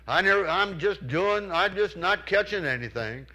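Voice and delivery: hollering across the lake. Retold or imitated. Friend hollers to Charles across the lake in complaint. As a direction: shout the complaint across the water. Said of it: "He kept hollering across the lake".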